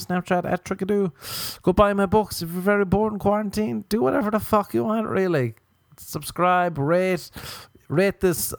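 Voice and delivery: high comic sign-off. Acted. Signing off the podcast to listeners in a high voice. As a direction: go up high and keep it there.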